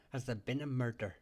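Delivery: badly faked Scottish accent; terrible Scottish accent. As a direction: have a poor go at a Scottish accent. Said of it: "that's a terrible Scottish accent".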